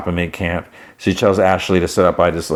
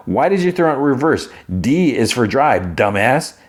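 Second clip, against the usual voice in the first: higher, fast rant slowing onto the punchline; exasperated scolding; 6 semitones higher than usual. Retold or imitated. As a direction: berate them for the blunder. Quiet scolds the bad driver.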